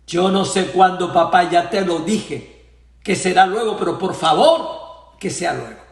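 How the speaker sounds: impatient refusal. Retold or imitated. Son impatiently refuses father.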